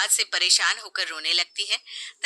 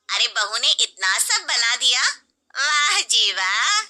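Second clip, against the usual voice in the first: mock praise; 3 semitones higher, 4 dB louder than usual. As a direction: praise with a sneer.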